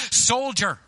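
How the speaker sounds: loud, stern address; intense. A narrator's reading. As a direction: say it with fierce intensity. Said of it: "he said intensely".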